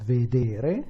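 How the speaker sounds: vedere stressed on the middle syllable, ve-DE-re; stress on penultimate. Shown as a demonstration. Teacher showing students stress in vedere. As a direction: say vedere with the weight on DE. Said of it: "Some of them have the stress where you expected".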